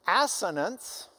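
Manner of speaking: Assonance said slowly, AS-so-nance, rising at the end; Assonance sounded out. Shown as a demonstration. Teacher slowly pronounces Assonance for the students. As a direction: give Assonance carefully, syllable by syllable.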